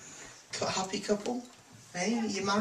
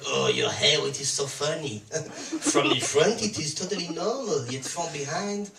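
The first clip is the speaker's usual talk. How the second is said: mock French accent. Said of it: "So she'll say things like".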